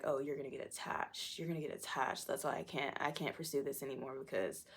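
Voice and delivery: lightly imitated dismissive guy; understated mock cockiness; cocky guy. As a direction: toss it off like a cocky date. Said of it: "the typical cocky guy".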